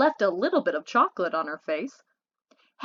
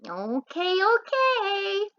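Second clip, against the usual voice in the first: rising, higher second okay; placating okay; 9 semitones higher, much slower than usual. A narrator's reading. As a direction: back off with a lifted okay. Michael backing off, placating.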